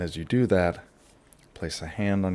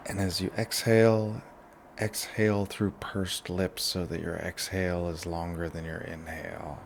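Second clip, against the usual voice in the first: guided relaxation; 6 dB quieter than usual. Shown as a demonstration. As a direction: lead them gently through each breath. Leads a breathing relaxation.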